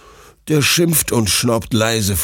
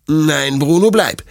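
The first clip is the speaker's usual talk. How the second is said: firm, mildly raised no; stern; 7 semitones higher, 5 dB louder than usual. Acted. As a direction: refuse the pup, strict but calm. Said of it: "sagt Detlef streng".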